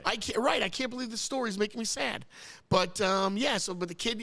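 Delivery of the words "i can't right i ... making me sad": a touch choked up, higher voice; mildly tearful, pitched up; close to tears. Real, not acted. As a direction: stumble slightly, moved by your own story. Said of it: "You're making yourself cry".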